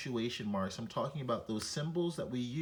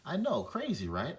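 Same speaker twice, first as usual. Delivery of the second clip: playful; 4 semitones higher than usual. Real, not acted. Mock surprise to viewers.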